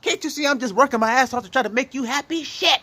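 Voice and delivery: husband venting at his unruly woman, shouting in frustration; exasperated yell. Retold or imitated. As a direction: blow up like a fed-up man at his woman. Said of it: "'Cause you're like".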